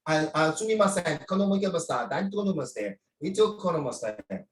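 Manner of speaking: playful fake Japanese gibberish, lightly done; mock Japanese. Joking mock Japanese to a student who won't speak up. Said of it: "so I speak in Japanese".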